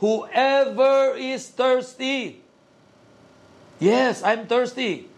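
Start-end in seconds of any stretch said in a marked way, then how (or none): 0.0-2.4 higher, drawn-out call to the crowd; imitating a public proclamation, stretched out; mildly raised proclamation. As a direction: slowly proclaim it, pitched up without shouting. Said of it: "stood up and said loudly".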